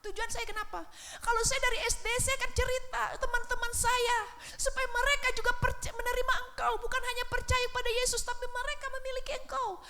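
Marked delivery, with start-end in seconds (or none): 0.0-2.1 high, loud and fast pleading protest; retold loud complaint to God. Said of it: "saya nangis-nangis". 7.1-9.8 retold protest. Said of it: "saya teriak".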